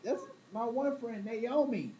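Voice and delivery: high, sassy knowing voice; woman shrugging off a catty friend, high and sassy. Retold or imitated. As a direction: pitch it way up like a knowing girlfriend. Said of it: "She's like".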